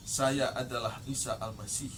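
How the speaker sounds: low, soft, solemn self-proclamation; penuh wibawa. Shown as a demonstration. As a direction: declare yourself with measured, quiet authority. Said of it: "Itu penuh dengan wibawa". (suara rendah berwibawa, tenang dan khidmat)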